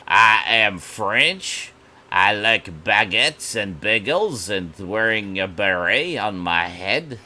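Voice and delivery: slow, hammed-up French accent; outrageous French accent. Host claims to be French, slow mock French accent. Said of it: "I have this outrageous accent".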